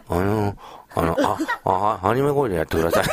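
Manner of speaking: lightly imitated awkward man, low and stammering; hunched, hesitant mumbler. Host mimics a hunched colleague making his request, hesitant and low. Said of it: "猫背でさ、こうやってね".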